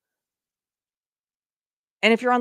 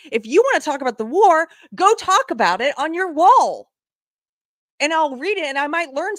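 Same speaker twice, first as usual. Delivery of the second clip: higher, louder scolding; irritated and raised, go post it elsewhere; upset; 6 semitones higher, 4 dB louder than usual. Real, not acted. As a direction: tell them off, voice up. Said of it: "I'm getting a little upset".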